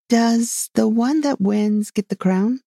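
slow, high, mildly winded question; out of breath. A narrator's reading. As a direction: ask as well as you can while running short of breath. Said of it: "putting her quite out of breath".

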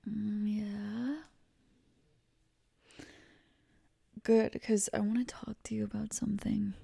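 soft, hushed late-night murmur; pillow talk. Acted.

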